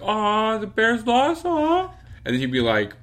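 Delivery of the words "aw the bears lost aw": very high, louder fake pity; sing-song aww, rubbing it in; mock sympathy. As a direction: mom gloating that the Bears lost. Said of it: "she'd be like".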